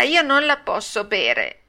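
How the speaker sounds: high, slow puppet whine; whining refusal. Acted. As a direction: drag it out like a spoilt child. Pinocchio refuses to drink.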